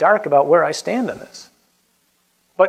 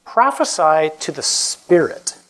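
slow scripture proclamation; much slower than usual. Acted. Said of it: "Then the Lord said to me".

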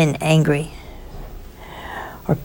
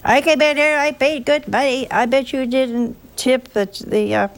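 higher, indignant customer complaining about service; mock angry customer; 6 semitones higher than usual. Preacher imitating an angry restaurant customer, mock indignant. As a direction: play the huffy diner who paid good money. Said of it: "we get angry at that kind of thing".

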